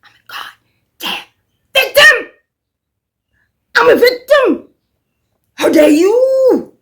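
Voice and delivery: mocking Gypsy outraged. Gypsy ranting at Ryan for moving on, mock outraged wail. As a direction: shriek it like a melodramatic victim. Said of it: "And she's like".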